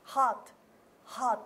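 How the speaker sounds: 「Hot」を顎を下げた母音で; 見本どおりHotを言う; Hotを真似て. Shown as a demonstration. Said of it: "はい、完璧です". (先生を真似たHot)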